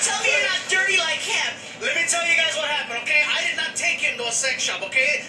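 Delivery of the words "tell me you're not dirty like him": mock plea. Mimicking crowd heckle, shouted.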